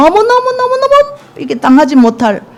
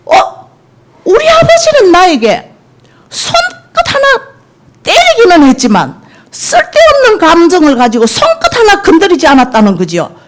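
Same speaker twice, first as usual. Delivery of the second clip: tearful quote; 6 semitones higher than usual. Retold or imitated. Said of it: "하는데".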